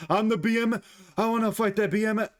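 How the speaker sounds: mock a fighter in a stray Russian accent; high-pitched Russian-sounding mock voice; accidental Russian accent. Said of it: "Why did I just do a Russian act?".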